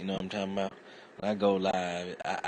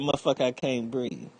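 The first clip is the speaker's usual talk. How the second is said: gasping protest; 7 semitones higher, 5 dB louder than usual. Retold or imitated. Pinned under cops.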